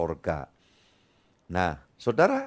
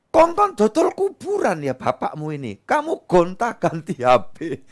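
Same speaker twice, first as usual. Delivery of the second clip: exasperated parent; 5 semitones higher, 3 dB louder than usual. Acted. Parent scolding demanding child.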